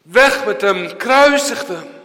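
high, loud cry to crucify; angry crowd. Acted. Preacher voicing the crowd demanding the crucifixion, an angry cry. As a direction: shout it like a mob turning.

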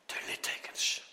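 hushed whisper of recognition; awed whisper. Acted. Disciples spotting Jesus' scars, awed whisper. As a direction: breathe it out in awe.

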